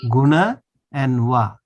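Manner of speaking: "guna" closed a, "wa" open a. Shown as a demonstration. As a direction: contrast the tight a of "guna" with the open a of "wa". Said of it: "This one is closed, this one is open".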